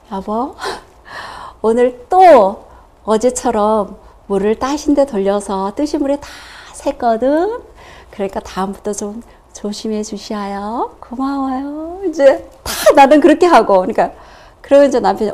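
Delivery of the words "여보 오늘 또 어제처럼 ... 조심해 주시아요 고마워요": soft gentle request. Retold or imitated. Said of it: "살살 조용히 얘기할게요".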